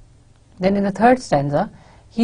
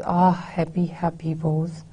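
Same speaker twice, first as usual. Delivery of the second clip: pained soft reading; 4 dB quieter than usual. Shown as a demonstration. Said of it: "the feeling of pain with which he says it".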